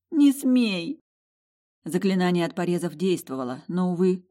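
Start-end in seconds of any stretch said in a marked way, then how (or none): 0.1-1.0 desperate cry. Acted. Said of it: "рыдала я беззвучно".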